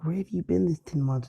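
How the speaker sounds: lightly acted maternal scolding; worried mother. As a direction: ask it high, like a fretting mom. Mom scolding her missing son.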